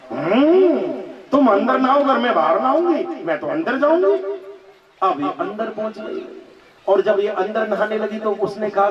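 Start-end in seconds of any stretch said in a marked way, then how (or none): 0.1-4.1 stubborn wife. Acted. Contrary wife refuses husband.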